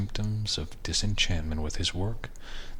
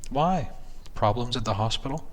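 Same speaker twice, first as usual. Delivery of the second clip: wife voice; 5 semitones higher than usual. Acted.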